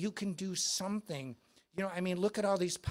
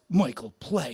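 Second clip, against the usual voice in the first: a rock star; 3 semitones lower, 9 dB louder than usual. Retold or imitated. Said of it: "he goes".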